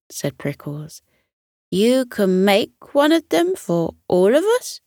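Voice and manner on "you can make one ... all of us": high and eager; light up with hope; excited question. Acted. Prickles asking Kira for ribbons, high and thrilled.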